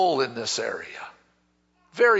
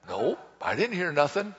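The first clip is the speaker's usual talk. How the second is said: low-key, softer denial; acted sleepy husband; 3 semitones lower, 5 dB quieter than usual. Husband answering wife's nudge at night, low-key denial. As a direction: mumble it like a husband half asleep.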